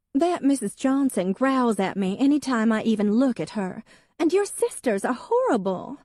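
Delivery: high, insistent grievance; Hadley's aggrieved voice. A narrator's reading. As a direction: accuse him like a resentful young wife. Wife voiced in novel.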